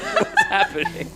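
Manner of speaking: surprised. Retold or imitated. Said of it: "we were just like".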